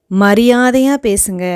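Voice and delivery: a stern order to show respect; angry warning. Shown as a demonstration. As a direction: insist firmly they speak with respect. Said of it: "கோபத்தோட பேசுறதுக்கு".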